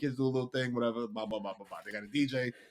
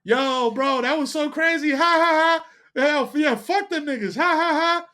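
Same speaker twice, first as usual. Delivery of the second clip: mock laughter; 5 semitones higher than usual. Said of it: "I do this whole thing".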